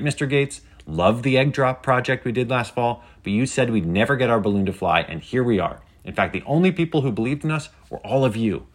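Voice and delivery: triumphant I-told-you-so, settling gradually; lightly voiced spirited livecaster. A narrator's reading. Penny tells viewers nobody believed in them, spirited.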